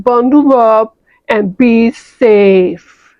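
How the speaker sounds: slow mock announcer read; slow mock newscaster; news report. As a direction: announce the blizzard gravely.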